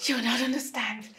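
tearful murmur. Acted. Wife repeats it quietly, crushed. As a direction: drop to a soft broken mutter.

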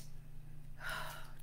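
long, soft airy exhale; spent sigh. Pretend. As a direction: sigh as if just done. Sigh after the shriek.

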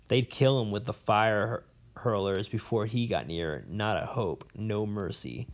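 a lightly voiced old scholar, rambling and bitter; a hint of a cranky old professor holding forth; jailed old professor. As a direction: play the disgraced academic nursing his grudges. Professor explains bear law.

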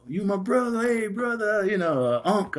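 quick breezy imitation; lightly mimicking friend. Mimicking the man's friendly greetings, high. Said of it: "the next day they're".

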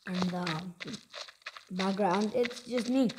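talking while chewing; crunching through a bite; mouth full. Real, not acted. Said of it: "Sorry for all the crunching sounds".

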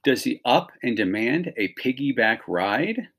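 ordinary talk

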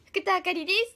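her catchphrase self-introduction in a lightly put-on voice; Fukuda Akari impression. Idol shows viewers a member's catchphrase, lightly imitated. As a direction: echo how the member always introduces herself. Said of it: "って言うよね".

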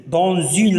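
dans une linked with a z, 'dan-zune'; liaison. Shown as a demonstration. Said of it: "la liaison كذلك".

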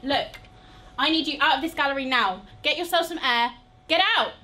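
loud, high, fast order; furious boss ordering someone out; angry dismissal. Acted. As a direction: throw them out, building to a shout. Orders staff out of gallery.

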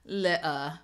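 loud British try at "Letter"; British accent attempt. Shown as a demonstration. Host showing viewers British "Letter", attempted accent. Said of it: "to me, the British accent".

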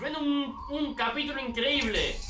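excited cheer. Real, not acted. Celebra a gritos el capítulo.

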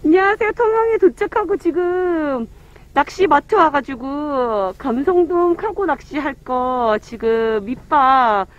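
muffled behind cloth mask; speaking into fabric mask; through a face mask. Real, not acted. Seen 0: Cloth face mask covers mouth and nose throughout; lowered by +14.1.

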